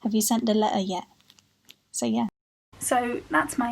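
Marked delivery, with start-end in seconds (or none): 0.0-1.0 "letter" and "yet" ending in throat catches, no t; quick line, t's dropped in "letter yet"; "yet" cut off without its t; glottal stops. Shown as a demonstration. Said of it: "Even at the end of words".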